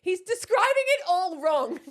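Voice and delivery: usual speaking voice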